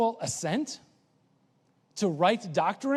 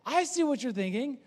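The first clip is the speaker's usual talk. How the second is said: higher, knowing voice; higher knowing voice, James addressing Ted; 4 semitones higher than usual. Retold or imitated. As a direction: play James seeing through Ted. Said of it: "he's saying".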